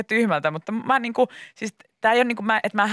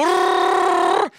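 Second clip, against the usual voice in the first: a long rolled mock machine urrrr; imitated tanning machine drone; 12 semitones higher, 4 dB louder than usual. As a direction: growl out urrrr like a spray machine. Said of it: "Se pitää hirveätä ääntä".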